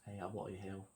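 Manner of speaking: put-on casual stab at a Cockney English accent; amateur Cockney English. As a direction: put on a rough Cockney, kept low-key. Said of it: "That's like a right kind of a Cockney".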